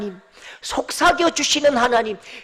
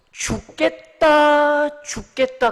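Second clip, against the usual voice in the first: mock despair; 4 semitones higher, much slower than usual. Shown as a demonstration. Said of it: "하나님을 알지 못하는 사람들".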